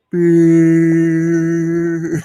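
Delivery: spring it on someone behind you like a strange noise; weird blurted word. Retold or imitated. Coworker sneaking up behind, blurting a weird loud word. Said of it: "he used to make these sounds".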